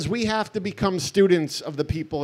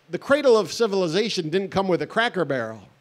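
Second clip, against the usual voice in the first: laughing wisecrack. Retold or imitated. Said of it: "Or I would have said".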